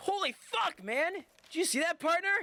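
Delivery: shrill, overexcited shout, pitched way up high. Retelling a game character's sudden entrance: imitating a character yelling. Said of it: "you don't need to yell".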